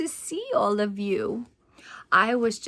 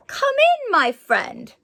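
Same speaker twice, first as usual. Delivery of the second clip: smiling welcome; 8 semitones higher, 5 dB louder than usual. Acted. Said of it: "said Mister Bell with a smile".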